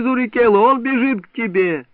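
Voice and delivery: high excited yell across the hill; high urgent shout. A narrator's reading. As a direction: warn him the hare is coming. Hunter shouting after fleeing hare.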